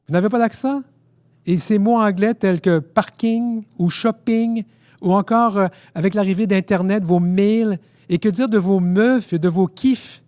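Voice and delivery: indignant rant. A narrator's reading. Québécois challenging the French about their accent, indignant. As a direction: rant at them, rising in outrage.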